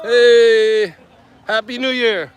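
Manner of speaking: high, loud happy new year call; high festive greeting. Real, not acted. Wishing locals happy new year, high and festive.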